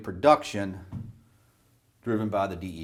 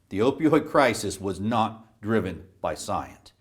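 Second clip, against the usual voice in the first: slower, deliberate, with weighty pauses; emphatic restatement. Real, not acted. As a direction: drive the denial home word by word. Repeats it after "No" for emphasis.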